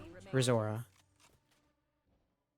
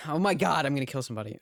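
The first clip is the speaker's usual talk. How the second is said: frustrated burst of exasperation; exasperated outburst; faster than usual. Real, not acted. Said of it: "Okay, sorry".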